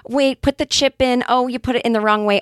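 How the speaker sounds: lightly acted checkout clerk; mock cashier. Cashier correcting a customer's chip card, lightly imitated.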